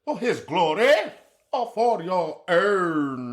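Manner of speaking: milk it like a grand stage actor; British accent. Retold or imitated. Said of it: "start doing Shakespeare".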